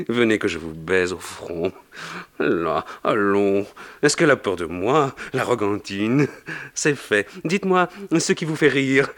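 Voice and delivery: put-on an old Pope charming a lady, lightly Italian; playful, gently teasing Pope; a lightly voiced Italian Pope, amused; Pope with Italian accent. The Pope speaks to Macaré.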